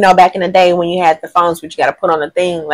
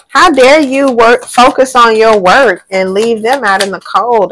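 mock indignant ex; 3 semitones higher than usual. Reader voicing the ex who feels neglected, mock indignation. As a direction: play the offended ex, scandalized.

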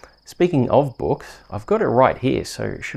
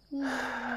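tired sigh; 13 semitones higher, 11 dB quieter than usual. Acted. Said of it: "The story really wore me out".

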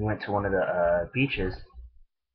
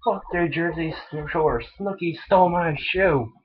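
put-on high, slow, drawn-out drunk yell; drunken yell; 9 semitones higher, 4 dB louder, slower than usual. Yelling drunk at the store about Snooki, high and slow. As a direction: belt it like a wasted guy ranting. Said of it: "Apparently I just yell".

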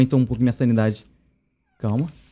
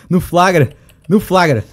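loud, higher triumphant call; triumphant cheer; 4 semitones higher, 9 dB louder, much slower than usual. Real, not acted. Caught the enemy in the act, loud triumph. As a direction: shout it out, caught it in time.

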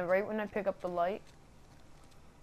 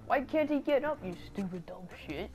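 retold frustration; 4 semitones higher than usual. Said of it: "So I was like".

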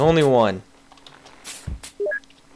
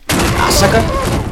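gloating drawl; 8 semitones higher, 5 dB louder, much slower than usual. Real, not acted. Gloats at game.

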